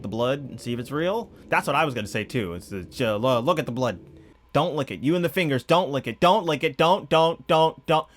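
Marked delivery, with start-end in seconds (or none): 4.5-8.1 rising, louder pleas of don't; urgent pleading. Real, not acted. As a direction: beg the screen to stop. Pleading with character on screen.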